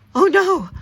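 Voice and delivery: sudden high, loud gasp of alarm. A narrator's reading. Storyteller to children, alarmed as the sled flips.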